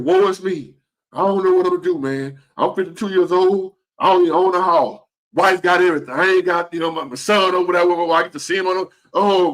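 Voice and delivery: mock whining about his troubles; whiny self-pity. Retelling his own whining to a friend, mock whiny. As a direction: complain like woe is me. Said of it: "Bitching to this man about".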